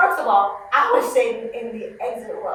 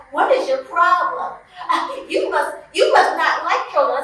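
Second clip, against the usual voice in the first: mock indignant mother; 6 semitones higher than usual. Angry mother voiced in story.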